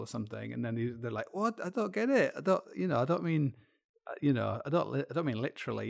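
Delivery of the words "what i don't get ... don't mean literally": high-pitched, baffled protest; mock bewilderment. Famous people accused of white supremacy protest, mock bewilderment. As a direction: plead innocence in mock confusion. Voices bewildered celebrities under fire.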